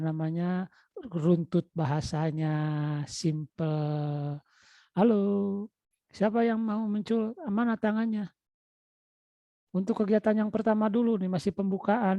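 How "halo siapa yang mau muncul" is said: normal talking voice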